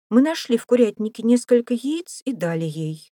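put-on high, loud child's voice; child explaining, pitched well up; excited child. A narrator's reading.

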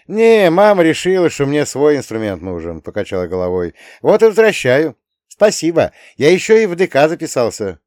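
high, loud youthful voice; eager boy. A narrator's reading. Boy returning grandpa's guitar, high eager explanation. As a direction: explain brightly, pitched well up.

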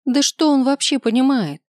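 high shrieked protest. A narrator's reading. Harpy squeals at the demon, shrill shriek. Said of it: "взвизгнула Гарпия".

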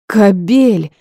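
loud, high cry of outrage; indignant outburst. A narrator's reading. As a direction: spit out the insult. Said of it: "возмутилась Рита".

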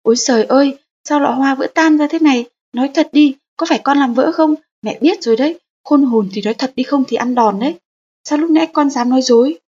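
put-on a mother telling off her child who broke the vase; angry scolding mother. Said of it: "mẹ lớn tiếng".

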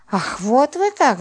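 high, slow, indignant cry; woman insulted by her lover cries out high; outraged cry. A narrator's reading. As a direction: fling it out, stung and outraged. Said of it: "закричала она".

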